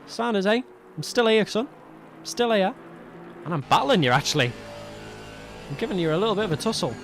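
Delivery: lightly voiced cheeky racer; voicing a driver. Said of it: "Saying, like".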